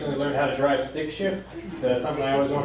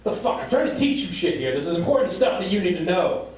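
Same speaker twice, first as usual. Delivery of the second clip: mildly raised exasperated father; acted fed-up scolding, a little higher; snaps; 4 semitones higher than usual. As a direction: lose patience with a touch of anger. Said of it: "Joe just snaps".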